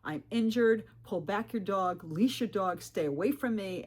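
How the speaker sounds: mildly agitated, insistent retelling; retold freak-out. Injured hiker warning off a dog owner, mildly freaked out. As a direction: press each warning a little harder. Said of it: "I freak out and say".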